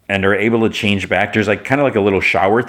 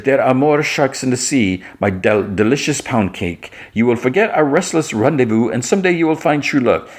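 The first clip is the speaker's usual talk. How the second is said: lightly voiced melodramatic princess, pitched up; a hint of a grand romantic farewell; theatrical princess; 4 semitones higher than usual.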